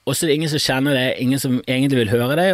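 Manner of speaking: ordinary talk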